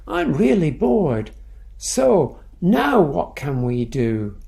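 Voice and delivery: roaring. Acted. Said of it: "Then Bushy roared".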